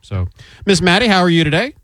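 ordinary talk

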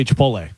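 "Chipotle" as chi-POHL-ay. Shown as a demonstration. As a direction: say "Chipotle" with no clear T. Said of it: "I always say Chipotle".

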